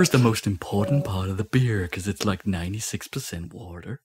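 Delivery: put-on tour guide in a Dutch accent. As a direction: explain beer-making in a Dutch accent. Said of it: "imagine all this in a Dutch accent".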